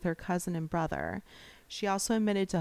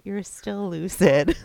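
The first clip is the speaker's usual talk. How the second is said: cheering; 10 dB louder than usual. Real, not acted. Cheering friend's milestone.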